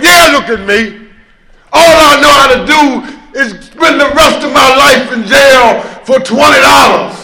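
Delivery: mock Clint Eastwood swagger; tough guy bravado. Tough guy speech, Eastwood style.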